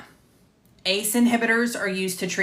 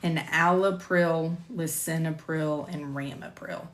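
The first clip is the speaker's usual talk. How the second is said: picking through tricky drug names, trailing softer; careful drug names; 3 dB quieter than usual. Real, not acted. Narrator struggling with generic drug names, careful delivery. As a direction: sound out each hard name, fading away. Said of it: "struggle with saying the drug names".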